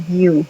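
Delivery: you said as "yoo" with a gliding y; you with no j sound, "yoo"; soft Y. Shown as a demonstration. Teacher shows learners the Y sound, you as "yoo". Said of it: "la Y suena más a".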